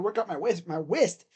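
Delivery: WAIST for "wrist", the r turned into w; playful cartoon w-for-r on WAIST; cartoon speech impediment. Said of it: "what's his name from freaking Looney Tunes".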